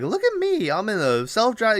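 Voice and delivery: high-pitched, giddy mock showing off; squealy retold excitement; excited mimicry. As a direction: imitate her gushing, pitch leaping way up. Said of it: "she's all excited".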